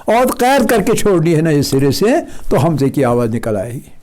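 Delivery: normal talking voice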